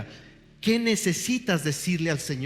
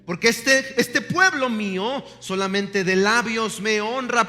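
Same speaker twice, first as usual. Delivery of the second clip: high, loud, earnest rebuke; Yeshua rebuking; 4 semitones higher, 4 dB louder than usual. Acted. Yeshua rejects lip-service worship, loud and high. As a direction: declare it as Jesus scolding the people. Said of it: "Yeshua dice".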